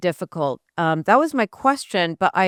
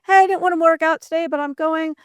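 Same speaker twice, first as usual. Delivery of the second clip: English accent impression; 9 semitones higher than usual. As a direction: put on a bubbly upbeat English accent. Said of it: "your English accent's cracked me up".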